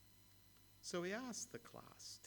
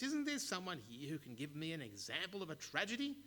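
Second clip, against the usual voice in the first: loud, fast, higher call to the room; raised voice; 5 semitones higher, 4 dB louder, faster than usual. Acted. The mayor pressing the silent class, voice raised. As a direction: demand an answer from the class. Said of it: "raises his voice".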